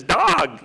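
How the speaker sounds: "Dog" said as street-slang "dawg", drawn out; playful "Dog" as affectionate slang dawg; slangy dawg. Retold or imitated. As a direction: say "Dog" like a buddy calling someone dawg. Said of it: "in the D A W G sense".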